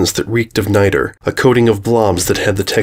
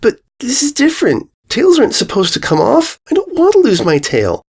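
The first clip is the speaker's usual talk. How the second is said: yelling; 14 semitones higher than usual. A narrator's reading. Filly refusing to lose her tail, yelling. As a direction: yell it, standing firm. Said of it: "Sweetie yelled".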